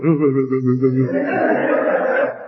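imitated pouting child's blubber; quivering-lip blubber. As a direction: blubber through a wobbling bottom lip. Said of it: "he's got that bottom lip going".

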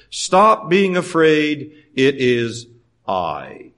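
calm the frightened ones; reassuring. Retold or imitated. Jesus' words, slow and soft.

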